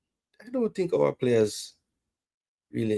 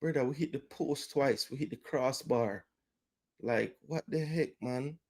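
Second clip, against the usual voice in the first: deflated; 9 dB quieter than usual. Real, not acted. Deflated after hitting woodwork.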